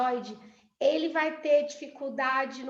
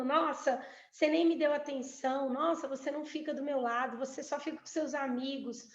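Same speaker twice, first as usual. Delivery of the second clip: complaining. Shown as a demonstration. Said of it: "de eu reclamar falando".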